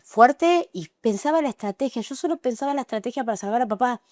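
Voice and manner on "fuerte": higher, louder retold push to herself; self-urging. Woman retelling how she told herself to be strong, urgent self-urging. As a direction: urge yourself on, voice jumping up.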